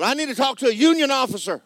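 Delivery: high, fast laughing mock holler of "union officer". Husband teasing his wife about the lights, laughing mock holler. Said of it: "I hollered and I said".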